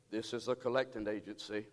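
low, soft disguised voice. Retold or imitated. Danny on the phone pretending to be a collector, low disguised voice. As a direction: fake a stern debt collector. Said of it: "Danny disguised his voice".

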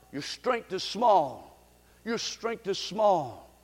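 hushed echo of the verse; soft repeat. Acted. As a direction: let the verse sink in quietly.

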